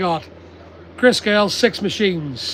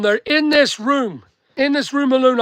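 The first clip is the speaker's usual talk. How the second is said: usual speaking voice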